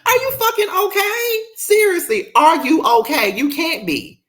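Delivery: squeaky high mock-concerned voice. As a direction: tease her like a worried friend. Mocking someone crying on the show.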